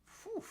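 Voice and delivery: high, airy exhale; relieved phew. Real, not acted. Relief after hitting the milestone.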